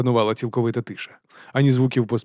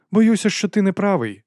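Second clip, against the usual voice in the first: higher, calm correction; Patrician's voice; 8 semitones higher, 3 dB louder than usual. A narrator's reading. Патрицій до Вонса, спокійно. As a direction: coolly put him right.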